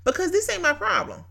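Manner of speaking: excited declaration. Retold or imitated. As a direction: toss the problem to God with a laugh. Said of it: "and I said".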